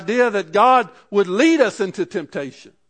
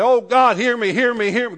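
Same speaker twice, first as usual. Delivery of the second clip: raised, louder repeated begging; mock desperate pleading; 6 semitones higher, 6 dB louder than usual. Preacher imitates needless begging to God, mock desperate plea. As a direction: plead over and over, pitched up and insistent. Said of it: "We don't have to go to God and say".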